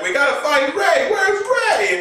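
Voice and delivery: very high, fast call; high urgent kid voice; worried Finn. Retold or imitated.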